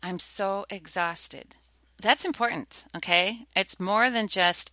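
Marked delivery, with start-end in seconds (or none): 0.0-1.6 mock exhausted repeat. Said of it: "they repeat the phrase".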